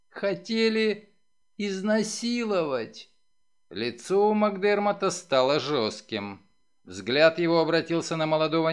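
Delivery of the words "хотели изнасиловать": slow, high, halting words; distraught, struggling to speak. A narrator's reading. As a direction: force the words out one by one through despair. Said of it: "Отчаянно рыдая, она с трудом произнесла".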